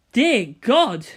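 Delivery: astonished. A narrator's reading. Narrator astonished at acrobatics.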